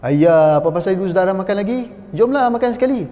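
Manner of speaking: mock pidgin Malay. Mocking a Malay speaking pidgin to a Chinese friend, lightly hammed. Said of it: "kita bertukar".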